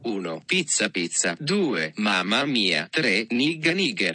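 robotic Italian text-to-speech voice; Italian Google Translate reading each option; Italian accent. Shown as a demonstration. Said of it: "read things in an Italian voice".

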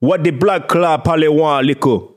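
slow patois attempt drifting towards Indian accent; accidental Indian lilt. Learner attempting Jamaican curse, sounding a bit Indian accented. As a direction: try patois, land slightly Indian. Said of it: "that sounded a bit Indian".

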